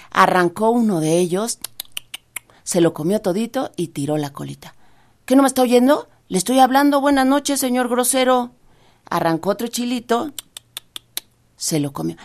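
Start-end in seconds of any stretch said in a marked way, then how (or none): 5.3-8.5 high rabbit voice, indignant and a bit louder; offended rabbit. Acted. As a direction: scold the rude scarecrow, piqued.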